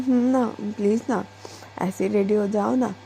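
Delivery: a light touch of cute pleading; cutely, lovingly. Acted. Diksha lightly begs her wife to skip the shower, mildly cute. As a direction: coax her gently, like a sweet child. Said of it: "बड़े प्यार से cutely बोलती है".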